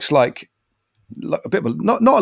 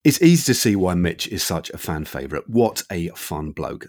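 softer scripted sign-off; podcast outro; 5 semitones lower, 4 dB quieter than usual. Acted. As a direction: read a measured host's farewell. Recorded sign-off after the interview.

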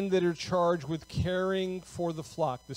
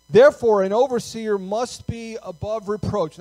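firm, measured Bible reading, slightly raised; scripture reading; 4 semitones higher, 7 dB louder than usual. Real, not acted. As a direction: read the verse out deliberately to the congregation. Reads scripture aloud to congregation.

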